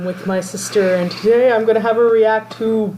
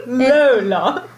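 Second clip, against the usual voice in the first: laughing; 3 semitones higher than usual. Real, not acted. Teasing name with a laugh.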